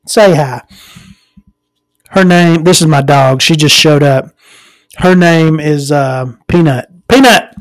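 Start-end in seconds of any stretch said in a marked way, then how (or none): 0.1-0.6 whisper to dog. Real, not acted. Coaxing the dog to speak. 7.1-7.5 louder, higher call of the name; calling the dog. Real, not acted.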